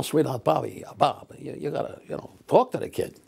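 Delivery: high, wheedling show-business patter; old showbiz writers. Retold or imitated. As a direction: plead like a fawning TV writer. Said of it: "that's the way they talked".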